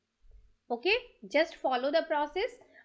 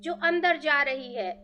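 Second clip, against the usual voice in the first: measured meditation voice with long pauses; guided meditation; 9 dB louder than usual. Real, not acted. Teacher asking listeners to thank each breath, measured guided meditation. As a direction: guide listeners phrase by phrase, leaving space between.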